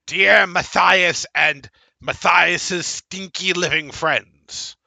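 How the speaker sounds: high, loud squeaky letter reading; creature reading a letter. Acted. Creature reading the vampire host's letter to the party, high and squeaky. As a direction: read out the host's note in the little creature voice.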